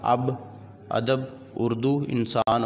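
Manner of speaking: opening vowels of अब, अदब, उर्दू, इंसान kept short; don't stretch the first vowel of अब, अदब, उर्दू, इंसान; short alif. Shown as a demonstration. Teacher giving alif maqsura examples, अब and अदब with short opening vowel. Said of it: "जो खींच कर ना पढ़ा जाए".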